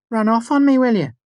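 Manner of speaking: high, loud hammed-up anger; mock fury. Fela re-enacting Ambrose's quarrel for friends, hammed-up rage. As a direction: play the wronged lover to the hilt.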